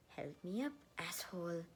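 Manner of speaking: breathy whispered insult; whispered demand. Acted. Injured Erica whispering rudely at Ned. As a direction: whisper it, annoyed and hurting.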